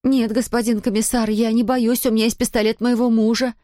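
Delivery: high, unsure, faltering bravado; timid bleat. Acted. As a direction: try to sound brave but fail. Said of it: "неуверенно проблеяла".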